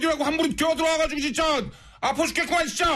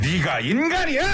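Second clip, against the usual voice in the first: slow angry retort; 4 semitones lower, slower than usual. Shown as a demonstration. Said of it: "한 번 더".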